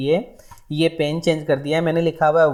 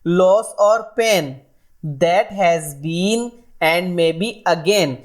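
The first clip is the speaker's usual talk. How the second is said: slow poem reading; much slower than usual. Shown as a demonstration. Teacher reading a poem line to students, slow recitation. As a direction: read each line very slowly, word by word.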